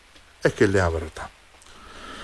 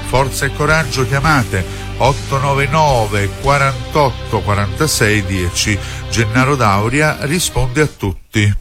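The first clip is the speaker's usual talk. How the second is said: ad read. Acted. Phone number ad read over music.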